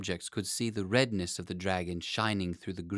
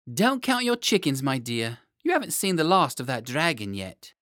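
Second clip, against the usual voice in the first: put-on much higher, louder old-nurse voice; nurse's warning; 4 semitones higher, 6 dB louder than usual. A narrator's reading. Nurse warning the happy king about the dragon. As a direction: warn him like a knowing nursemaid.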